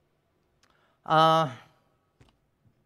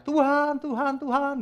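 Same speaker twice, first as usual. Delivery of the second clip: high, repeated mock prayer cries; imitasi teriak-teriak berdoa; 12 semitones higher, 4 dB louder, slower than usual. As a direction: call out over and over in showy prayer. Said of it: "Dia tiap hari teriak-teriak". (menirukan orang berseru-seru dalam doa dengan nada tinggi)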